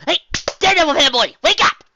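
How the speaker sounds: calling out loudly to a dozing friend; yelling wake up. Acted. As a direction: shout to rouse a sleeper.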